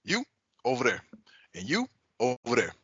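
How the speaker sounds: imitating an irritated teacher, lightly voiced; teacher calling out kids he is mad at, lightly imitated. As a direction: point out kids one by one, annoyed. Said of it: "when them kids get on his nerves".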